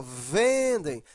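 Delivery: "vendem" slowly, VEN drawn out; long stressed VEN in "vendem", falling. Shown as a demonstration. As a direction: stretch the first syllable of "vendem". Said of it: "a sílaba mais forte é vem".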